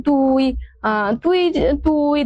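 Bengali regional drawl on "তুই". Shown as a demonstration. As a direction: stretch "তুই" out slowly, as in village Bengali. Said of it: "যেগুলো হচ্ছে আঞ্চলিকতার টান".

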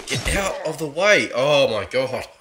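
being chased. Real, not acted. Executioner still chasing.

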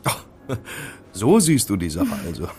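laughing through the line; chuckle, caught off guard and amused. Acted. Man laughs at her calling him her slave, amused.

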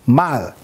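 Mal said as one short syllable, stopped dead after the l; short clipped syllable. Shown as a demonstration. Teacher showing the class how the vowel point stops the sound, short stopped Mal. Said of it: "It's short".

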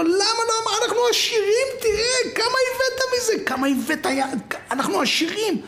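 very high, squealing excitement; ecstatic wife. Acted. Wife thrilled at diamonds among the boxes, ecstatic. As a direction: squeal the news breathlessly at him.

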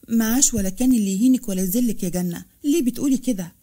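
a touch of firmness, lightly pressed; firm tone. Acted. Farah defends her sister, mildly firm. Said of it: "اتكلمت فرح بلهجة قوية".

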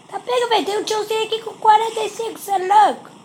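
surprised. Real, not acted. Surprised by opponent's stats.

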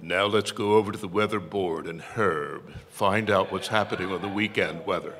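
lightly voiced TV news anchor; a hint of formal anchorman delivery; John Facenda imitation. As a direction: hand over to the weatherman in an anchor's voice. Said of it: "do my John Facenda imitation".

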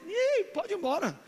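high, joyful, near-tearful voice; ecstatic, tearful traveller; overjoyed reply. Retold or imitated. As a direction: sob out your happiness, voice way up. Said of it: "A aeromoça, "Tudo bem, senhor?".

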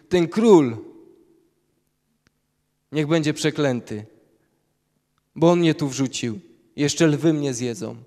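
loud, indignant grumbling curse; mock complaining. Imagined Daniel curses the king from the den, loud and indignant. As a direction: rail against the king as a wronged man. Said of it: "który narzeka".

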